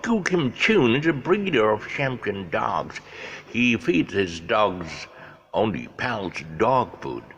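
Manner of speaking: slow, measured commercial voiceover; announcer voice. Retold or imitated. Voiceover man narrating a dog food commercial, slow and measured. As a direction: read it like a seventies TV ad announcer. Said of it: "he voiced it".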